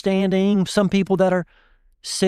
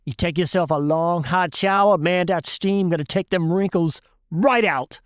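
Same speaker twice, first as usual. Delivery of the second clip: put-on thick Cajun accent. Cajun shrimper explaining to the class what to do, thick Cajun accent. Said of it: "Bernard says in that thick Cajun accent".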